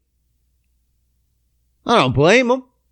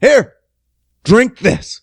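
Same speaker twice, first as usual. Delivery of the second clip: calling up from a window, higher and louder; old man calling out his window, mock yell; 9 semitones higher, 4 dB louder than usual. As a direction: holler down at him. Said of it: "And he fucking".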